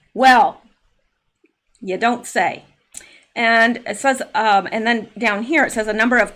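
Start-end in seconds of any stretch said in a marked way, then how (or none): 0.1-2.6 dry sarcastic "you don't say". Real, not acted. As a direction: drawl it out with mock surprise. Mocking Hustler's holiday card.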